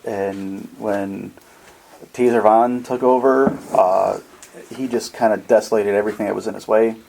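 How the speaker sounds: a gently calming refugee, lightly voiced; calm well-spoken man. Robed stranger explains his burned city to Sid, calm and soothing. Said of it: "his voice is very calming".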